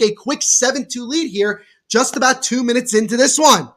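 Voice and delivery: brisk live game call, rising on the big plays; lively sports commentary. Acted. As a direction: call the action as it happens.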